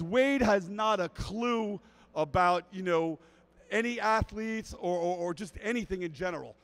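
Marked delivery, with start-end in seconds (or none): none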